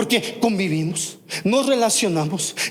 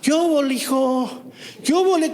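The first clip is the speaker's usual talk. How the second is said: put-on playful Mexico City chilango accent, higher pitched; lightly hammed chilango street greeting; 4 semitones higher than usual. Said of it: "se les pega el acento chilango".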